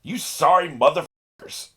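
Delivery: "You sorry motherfuckers" said in full, high, loud and slow; full uncensored curse. Real, not acted. Viewer yelling the uncensored curse at the villains. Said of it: "remember to bleep this out".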